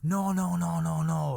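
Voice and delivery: gossip-hungry women, rattling off denials; chorus of women. Retold or imitated. Aunties answer uncle's question, imitated chorus of curious women. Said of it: "literally a whole chorus of".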